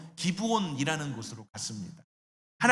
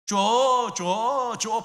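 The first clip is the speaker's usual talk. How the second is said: mock toddler whining, higher and louder; whiny child; 5 semitones higher, 6 dB louder, much slower than usual. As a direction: imitate a begging little child. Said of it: "아주 어릴 때는 그냥 울기만 하죠". (떼쓰는 아이 흉내)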